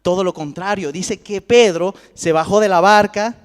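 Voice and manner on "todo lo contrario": usual speaking voice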